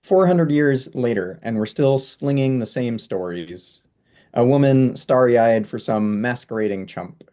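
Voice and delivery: spoken-word poem delivery; poetry reading. Acted. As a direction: recite it as verse, hitting each line opening. Poet recites own poem.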